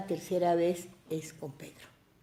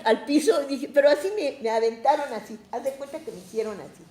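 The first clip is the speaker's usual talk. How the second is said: usual speaking voice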